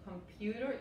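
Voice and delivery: "computer" as com-PYU-ter; y-glide before U. Shown as a demonstration. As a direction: slip a y sound in front of the u of "computer". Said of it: "es como si tuvieras". ("computer" con una ye delante de la u)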